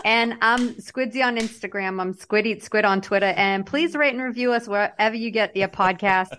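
r-dropping Massachusetts accent. Shown as a demonstration. Host asking listeners for reviews, Massachusetts accent. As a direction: read the plugs in Massachusetts speech. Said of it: "in my mass".

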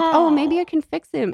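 high, hopeful mock voice; naive hope. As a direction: play it as wishful and naive. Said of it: "then she's like".

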